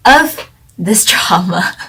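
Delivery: laughing under her breath through the words; whispered giggle. Real, not acted. Vlogger giggling as she trails off introducing the drama, hushed laugh.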